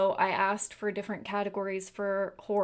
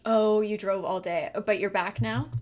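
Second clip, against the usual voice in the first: ordinary talk, nothing marked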